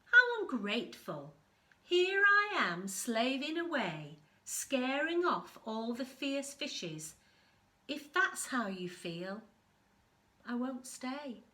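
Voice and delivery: loud, offended huff; how dare you, I slave away; indignant blob. Acted. Anemone snapping back at the crab, offended and loud. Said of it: "says Blob".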